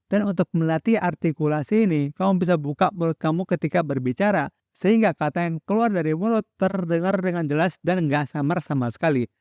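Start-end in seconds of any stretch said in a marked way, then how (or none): none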